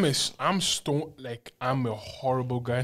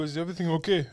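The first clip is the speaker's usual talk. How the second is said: laughing mock concern; 4 semitones higher, 4 dB quieter, faster than usual. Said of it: "I go".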